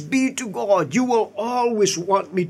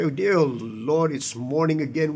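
mild mock groan; 4 semitones lower, 3 dB quieter than usual. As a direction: sigh it out as if dreading the day. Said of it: "We don't wake up and say".

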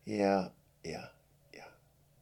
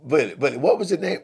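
loud, high call across the room; 7 semitones higher, 10 dB louder than usual. Acted. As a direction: shout his name to get him back. Friend calls out to Billy.

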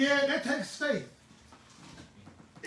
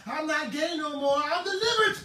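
higher, mock-sincere church testimony; lightly voiced, scornful impression of a convert; mocking imitation; 4 semitones higher than usual. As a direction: parody a man claiming deliverance. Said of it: "I make a mockery out of you".

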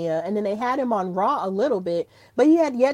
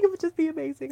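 much softer, dreamy echo of "It would just be amazing"; softer repeat; 6 semitones higher, 6 dB quieter, much faster than usual. Real, not acted.

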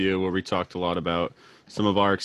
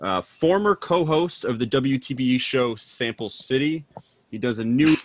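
upbeat radio host read; 4 semitones higher than usual. Acted. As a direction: keep the DJ intro going. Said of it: "this is when the radio voice".

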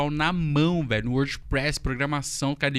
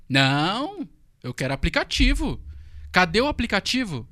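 half-shouted, demanding, a bit higher; mock angry yelling; 4 semitones higher, 4 dB louder than usual. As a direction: play the client yelling at you. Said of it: "e começou a gritar". (gritando com raiva, imitando a cliente)

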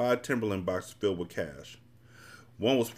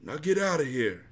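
mildly stern, raised-pitch dismissal; dismissive order; 6 semitones higher than usual. A narrator's reading. Bullet ordering the addict out, dismissive. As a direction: send them away, pitch lifted.

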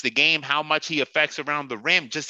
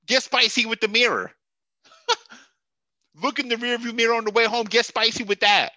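laughing taunt; 7 semitones higher than usual. Acted. Mocking the player, laughing.

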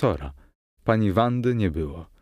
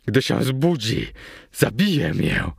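fearful, pleading groan; anguished character voice, slowing at the end; moaning in fear. A narrator's reading. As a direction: whimper the dread, dragging the last words. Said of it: "jęknął, zmieniając ton".

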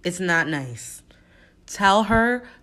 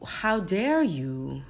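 slow, soft disbelief at a liar; quiet seething outrage; much slower than usual. Pretend. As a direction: hold the anger in, slowly. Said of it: "I would be livid".

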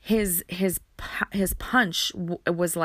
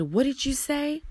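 sudden high snap of a retold threat; snapping; 7 semitones higher than usual. Retelling how her boyfriend snapped at her, high menacing snap. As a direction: throw his menacing question back at her. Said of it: "he snapped".

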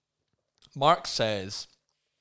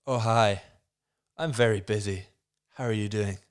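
lightly put-on American accent; 5 dB louder than usual. The speaker answering Lisa's phone call, amateur American accent. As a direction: attempt an American accent, pitch near your own. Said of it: "I went for an American accent".

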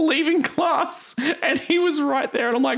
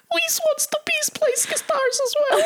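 high, bright tiny ant chorus; official ant voice. Pretend. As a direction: speak as a tiny ant colony. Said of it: "official ant voice".

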